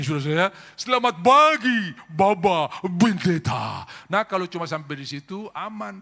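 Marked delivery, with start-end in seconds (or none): 0.7-3.9 higher, louder Arab accent, slow, "pagi" said "bagi". Shown as a demonstration. Pastor repeats Arab greeting in Arab accent, louder. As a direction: stretch out "Baba Bendeta" in an Arab accent. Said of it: "Semua P jadi B".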